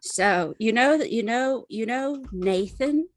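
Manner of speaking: halting, rambling tipsy confession. Acted. High character struggles to tell story.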